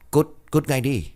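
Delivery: a brother snapping at a screeching bird; angry shout. Acted. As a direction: yell it to scare the bird away. Man chasing off a bird.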